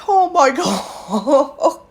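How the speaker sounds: slow, drawn-out "oh my God" with a laugh inside; laughing disbelief. Real, not acted. Reacting to her worker's kind words, laughing slowly. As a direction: let the laugh break the phrase.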